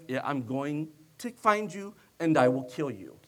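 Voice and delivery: mean every word, low and steady; serious threat. Retold or imitated. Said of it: "or it was".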